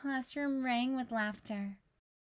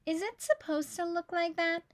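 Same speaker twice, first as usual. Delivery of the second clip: whispered question; 5 semitones higher than usual. Acted. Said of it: "Jack whispered to Maria".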